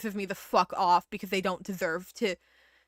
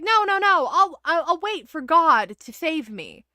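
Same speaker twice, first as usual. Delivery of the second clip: higher, insistent no no no; stubborn refusal; 4 semitones higher, 5 dB louder than usual. Retold or imitated. Stranded person in the joke, higher insistent refusal. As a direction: refuse firmly, sure God will come. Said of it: "the person is like".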